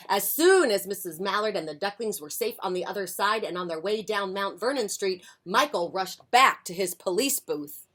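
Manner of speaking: lively picture-book reading; expressive storytime voice; story narration. A narrator's reading. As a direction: read it aloud to young children. Reads picture book to children.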